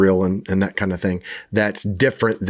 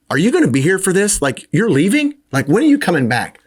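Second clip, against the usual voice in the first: higher, pleading mock disciple voice; anxious disciples; 7 semitones higher than usual. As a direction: play the worried disciples begging for an answer. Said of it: "they wanna know".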